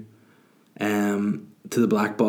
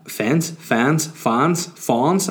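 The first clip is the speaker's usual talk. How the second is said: rock singer echo; 3 semitones higher, much slower than usual. Retold or imitated. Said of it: "rock band impressions".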